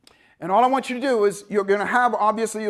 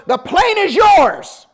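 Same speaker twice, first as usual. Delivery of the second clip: loud, high, slow proclamation; the plane is yours, called out big; instructor's call; 10 semitones higher, 8 dB louder, much slower than usual. Retold or imitated. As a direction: boom it out like handing over command. Instructor hands over plane.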